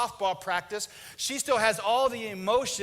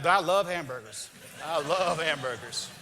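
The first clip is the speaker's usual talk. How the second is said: lower, whiny defensive; hurt husband; 5 semitones lower than usual. Retold or imitated. Husband defends his dinner wish, lightly whiny. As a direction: plead like a sulky kid. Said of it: "he's like".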